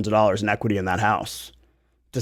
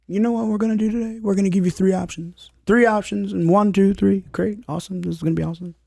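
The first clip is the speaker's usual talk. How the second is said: hyped-up, fast and higher coach voice; David Goggins voice; 7 semitones higher than usual. Retold or imitated. Podcaster imitates Goggins pitching three options, hyped. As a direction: pump them up like a drill coach. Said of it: "a David Goggins taking Phil Jones".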